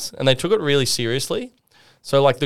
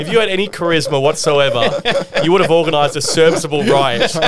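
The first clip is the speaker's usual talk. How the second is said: mock judge; 3 semitones higher, 4 dB louder than usual. Imitating the judge sentencing.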